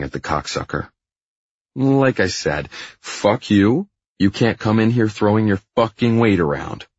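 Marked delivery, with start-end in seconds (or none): 1.8-6.9 high, whiny angry retort; defiant Hyde. Acted. Fired Hyde defying the boss, high indignant voice. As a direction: talk back indignantly in a raised pitch.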